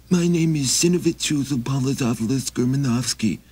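high, pleading little traveler; high begging wanderer voice; Maxie voice. Acted. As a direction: raise the pitch and ask humbly.

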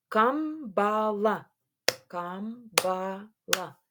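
КАМБАЛА slowly as кам-ба-ла; syllable by syllable. Shown as a demonstration. Teacher dividing a word for pupils, syllable by syllable. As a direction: stretch each syllable of КАМБАЛА. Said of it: "на склади".

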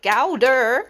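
Gouda repeated as "GOW-da", rising at the end; British Gouda. Shown as a demonstration. Vlogger demonstrating Gouda to her viewers as "GOW-da". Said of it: "is how you would say it".

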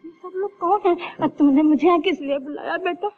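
sobbing, begging her son to answer; a mother's voice breaking with tears; tearful pleading. Acted. Mother pleading with her lost son, tearful.

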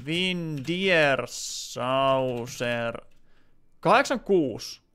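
each syllable drawn out very slowly while typing; slow dictation. Real, not acted. Streamer typing a viewer's username, slow careful dictation. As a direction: sound it out letter by letter as you type.

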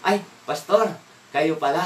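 high, loud sudden recognition; surprised greeting. Retold or imitated. Neighbor recognizing the angry driver as pastor, surprised and loud. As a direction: caught off guard, bright and loud. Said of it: "oh, sabi niya".

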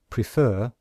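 prefer with the weight on fer; pre-FER, second syllable stressed. Shown as a demonstration. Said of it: "can you hear that we stress the second syllable".

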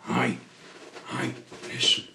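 loud, sudden hail; calling out. Acted. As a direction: shout to get their attention. Character calls the others to listen.

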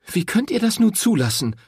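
high, loud furious reproach; angry accusation. A narrator's reading. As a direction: shame him to his face. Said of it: "fragte sie noch einmal".

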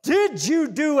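slow probing question to his daughter; father quizzing his daughter, drawn out. Retold or imitated. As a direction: interrogate her gently. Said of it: "and I said".

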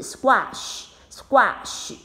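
slow, careful teacher model; drawn out clearly for learners; teacher modelling a word slowly. Shown as a demonstration. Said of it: "第一个字squash".

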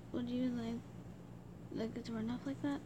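trailing off quietly; talking low. Real, not acted. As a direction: let the words sink low. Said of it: "I talked really low like that".

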